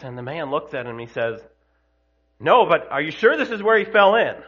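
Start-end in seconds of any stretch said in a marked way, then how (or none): 2.4-4.4 punchline through laughter. Acted. Punchline of the joke.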